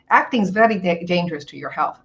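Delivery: lightly imitated Asian accent. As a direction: slip into a slight Asian accent. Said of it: "I break into an Asian accent".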